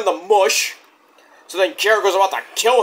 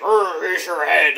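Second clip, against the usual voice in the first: slow, drawn-out monster growl; hammed-up gruesome groan; mock growl; slower than usual. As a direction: growl it like presenting a trophy. Mimics Callis holding severed head.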